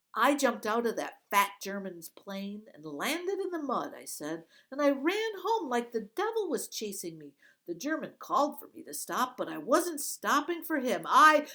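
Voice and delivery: quick, high, loud chatter. Acted. Girl stalls the guards, chattering fast and loud. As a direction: rattle it off to stall them. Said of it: "The words came spilling out".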